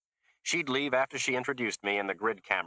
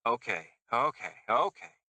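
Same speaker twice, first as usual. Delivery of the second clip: pleading driver; 3 semitones higher than usual. A narrator's reading. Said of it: "the driver said in a different voice".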